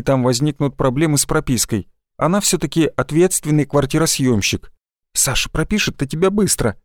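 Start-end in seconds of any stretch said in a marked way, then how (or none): 5.1-6.8 ingratiating. Acted. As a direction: ease in sweetly to set up a request. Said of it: "вкрадчиво начала она". (вкрадчиво)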